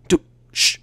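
hushed urgent whisper. Acted. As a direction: shush him under your breath. Hushing near the boss statue.

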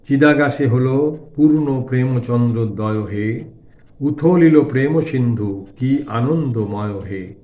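slow, drawn-out chanting recital of verse; devotional verse recitation. A narrator's reading. Narrator reciting a song to the Divine Mother, slow devotional recitation. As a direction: recite the hymn slowly, lingering on line endings.

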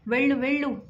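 firm, lightly tearful plea to leave; crying out firmly. Acted. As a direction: push his friend away through tears, understated. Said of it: "ఏడుస్తూ గట్టిగా చెప్పాడు".

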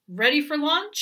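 goat calls loudly from the barrel; calling out. Acted. Goat calls to the hen before the launch, loud. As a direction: shout it out to the hen. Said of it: "he called".

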